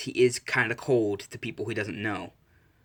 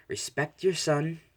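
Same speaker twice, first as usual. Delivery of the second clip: slow, higher-pitched reprimand; wifely scolding; 6 semitones higher, slower than usual. Acted. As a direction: scold him slowly, pitch raised. Wife scolds husband, grabbing his ear.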